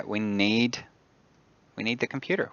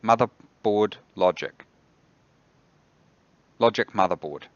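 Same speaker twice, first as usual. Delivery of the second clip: careful command; 5 dB louder than usual. Real, not acted. Retrying a misheard voice command.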